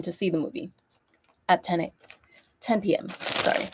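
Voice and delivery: stuffy nose from a cold; talking through a blocked nose; nasal voice. Real, not acted. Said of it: "if I sound nasally".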